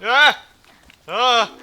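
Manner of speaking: short, high, loud yelps; startled cries. Real, not acted. Player caught in a fight, startled cries. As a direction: yelp as if suddenly hit.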